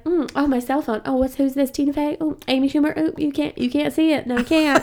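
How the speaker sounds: high, badly faked Southern accent; Jack McBrayer. Visiting comic playing with his cell phone, bad Southern accent. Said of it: "doing a really bad accent".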